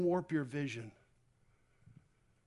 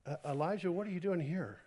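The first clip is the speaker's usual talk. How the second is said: quiet voice of God; 7 dB quieter, faster than usual. Acted. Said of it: "and he said to him".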